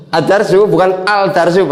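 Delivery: Ad-darsu with a doubled d, then al-darsu with a clear l; Ad-darsu as add-darsu, not al-darsu; right and wrong contrast. Shown as a demonstration. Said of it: "jangan sampai membacanya al-darsu".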